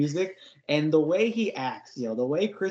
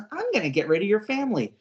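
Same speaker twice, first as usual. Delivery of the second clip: menacing AI; 6 semitones higher, faster than usual. Retold or imitated. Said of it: "Zippy says".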